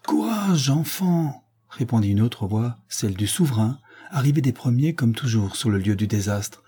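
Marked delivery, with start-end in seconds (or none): 0.1-1.5 appel encourageant. A narrator's reading. Le souverain encourage le pompier.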